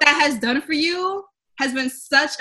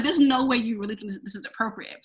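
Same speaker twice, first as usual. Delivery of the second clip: low serious rebuke, dropping softer; dead serious; 3 semitones lower, 5 dB quieter than usual. Retold or imitated. Employee refusing coworker who wants her hair, dead serious. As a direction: retell a stern objection quietly. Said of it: "Like, I got so serious".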